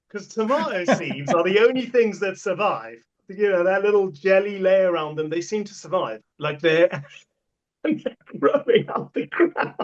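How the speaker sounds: can barely get it out for laughing. Real, not acted. Telling the co-host about the tomato plants, laughing through it.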